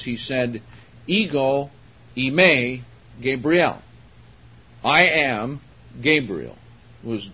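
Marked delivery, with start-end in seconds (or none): 1.1-3.8 slow, weighty quote, each word set apart; dogmatic declaration. Retold or imitated. Gabriel tells Mary who he is, dogmatic. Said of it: "dogmatic stating who he was". 4.8-6.6 loud, firm opening, then settling on the name; dogmatic declaration. Retold or imitated. Gabriel stating who he was, dogmatic. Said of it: "dogmatic stating who he was".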